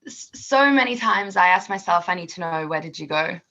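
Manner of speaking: light Australian accent on a song line; Aussie accent. Shown as a demonstration. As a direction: try an Aussie accent, a bit unsure. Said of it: "say the first line of my song now".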